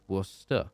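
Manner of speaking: Worcester as two parts, WUSS-tuh; pronunciation demo. Shown as a demonstration. Streamer teaching viewers how to say it, Worcester pronounced WUSS-tuh. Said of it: "learn how to say Worcester".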